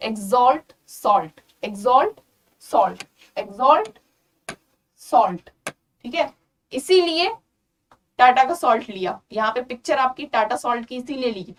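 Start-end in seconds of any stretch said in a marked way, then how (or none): 0.1-5.7 exalt and salt said slowly apart with matching "olt" endings; stretched exalt, then salt echoing its ending; rhyming demo. Shown as a demonstration. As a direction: pause between exalt and salt to show the rhyme. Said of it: "सॉल्ट के साथ rhyme कर रहा है".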